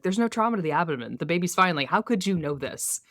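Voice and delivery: lightly voiced exasperated rant; ranting at Bobby. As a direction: rattle off the complaints in mock outrage. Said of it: "he's like".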